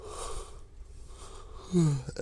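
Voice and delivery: long sleepy yawn; tired yawn. Real, not acted. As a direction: yawn it out late at night. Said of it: "apologize for all the yawning".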